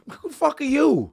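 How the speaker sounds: imitating an indignant comic's snap; mock outrage. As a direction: fling it up high like a shocked retort. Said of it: "So he was just like".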